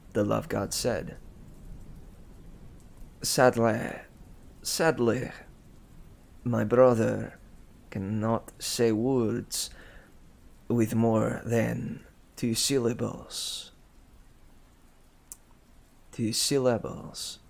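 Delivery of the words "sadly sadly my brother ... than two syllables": put-on French accent. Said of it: "whenever I try to do a French accent".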